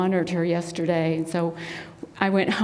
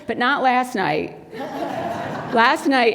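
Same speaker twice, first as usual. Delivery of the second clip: usual speaking voice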